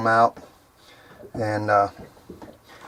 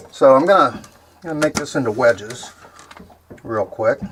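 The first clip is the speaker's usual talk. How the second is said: talking while chewing bacon; words through a mouthful of crunch. Real, not acted. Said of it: "Pardon my crunching on the bacon".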